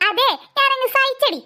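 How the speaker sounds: slow, taunting laughter; gloating laugh. Acted. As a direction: laugh it in her face, slowly. Sister gloats over chocolate. (പതുക്കെ കളിയാക്കുന്ന ചിരി)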